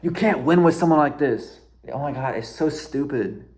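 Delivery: telling viewers the story makes him mad; real frustration. Real, not acted. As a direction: vent how impossible she is. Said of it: "this story makes me mad".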